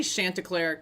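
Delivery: "Chanticleer" with the a of "shanty"; short "a" pronunciation. Shown as a demonstration. Settling on a name because he sings, short "a" pronunciation. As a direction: say "Chanticleer" as SHAN-tuh-clair. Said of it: "chanting or shanty".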